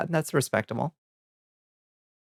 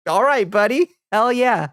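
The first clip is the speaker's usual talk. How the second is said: mock cheer; 9 semitones higher, 3 dB louder than usual. Mock cheering reply to Zelensky.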